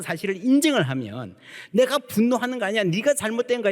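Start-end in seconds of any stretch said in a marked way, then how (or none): 1.7-3.7 mock angry denial. Quoted angry self-justification.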